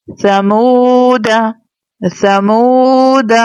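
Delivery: ला आऊं तुम drawn out slowly, syllable by syllable; slow Quran recitation. Shown as a demonstration. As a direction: recite each syllable slowly with long vowels. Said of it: "एक दफा फिर पढ़ लेते हैं".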